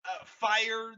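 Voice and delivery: a high, lightly voiced fascist general; a hint of a pompous villain; mock Hux speech.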